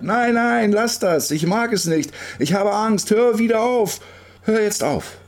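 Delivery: very high, wailing cries; frightened scream. A narrator's reading. Girl on swing begs him to stop, screaming. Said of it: "und sie schreit".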